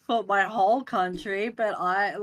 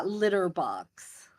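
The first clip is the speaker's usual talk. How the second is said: litter box said slowly in a put-on American accent; slow, careful American litter box; Australian trying an American accent; American term; much slower than usual. Shown as a demonstration. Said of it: "tell us what Americans call a cat tray".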